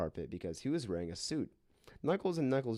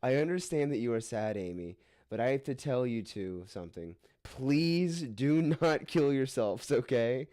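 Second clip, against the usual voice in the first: sad and meaning it; 3 semitones higher than usual. Acted. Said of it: "in a very sad and meaning it way".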